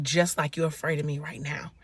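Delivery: retold line, softly whispered; whispered quote. The man telling the scared woman, whispered. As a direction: whisper it gently to her.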